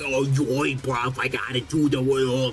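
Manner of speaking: high, loud hammed-up Cockney Alfred; playful over-the-top Cockney accent; mock Cockney. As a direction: ham up a Cockney butler doing Michael Caine. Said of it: "where he's like".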